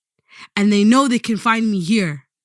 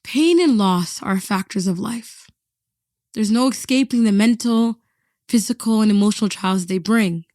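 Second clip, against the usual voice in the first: documentary narration. A narrator's reading.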